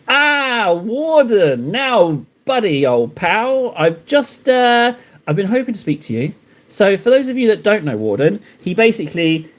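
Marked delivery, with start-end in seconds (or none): 0.1-6.3 slow, chummy mock greeting; overly familiar. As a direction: lay on the buddy-buddy charm. Greeting a fellow streamer teasingly.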